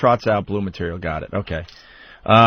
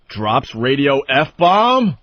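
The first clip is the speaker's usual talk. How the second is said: headline read; 5 dB louder, much slower than usual. Shown as a demonstration. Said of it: "underneath it says".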